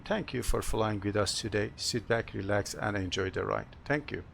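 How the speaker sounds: pilot addressing passengers over intercom; captain's PA announcement. Pretend. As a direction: welcome the cabin as the captain. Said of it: "Have a short announcement".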